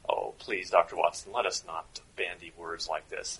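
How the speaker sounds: a very bad German accent, interrogating a spy. German officer questions Doctor Watson in a bad German accent. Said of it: "doing a very bad German accent".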